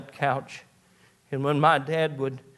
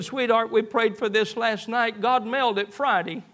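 joyful exclamation; 6 semitones higher than usual. Retold or imitated. Father rejoicing over answered prayer.

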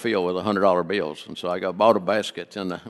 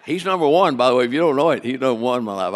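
loud, raised-pitch preacher's declaration; emphatic testimony; 3 semitones higher, 7 dB louder, faster than usual. Real, not acted. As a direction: proclaim it at full volume to the congregation. Bursts into testimony of his faith.

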